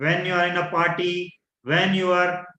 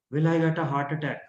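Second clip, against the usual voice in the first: fearful doubt; 4 semitones lower, faster than usual. Shown as a demonstration. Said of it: "the disempowering thought was".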